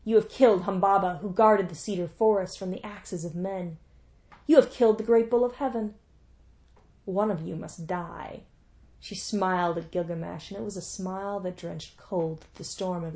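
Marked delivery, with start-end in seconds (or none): 0.0-8.4 loud, furious curse, slowing on the final doom; goddess cursing. Acted. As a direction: hurl the curse at them like an angry goddess. Ishtar curses Enkidu.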